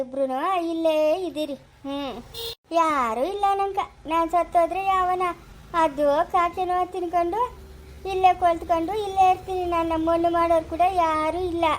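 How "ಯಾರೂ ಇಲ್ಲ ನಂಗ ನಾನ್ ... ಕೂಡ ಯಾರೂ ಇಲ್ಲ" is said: higher-pitched, plaintive wail of words; plaintive lament. Acted. Widow tells the child nobody will bury her, plaintive lament. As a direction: lament your lonely fate.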